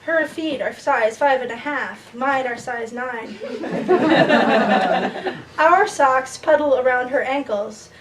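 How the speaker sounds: measured poem recital with lifted phrase starts; falling cadence at each line's end; poetry reading. Acted. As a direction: read it to the room as a poem, line by line. Reads a poem to audience.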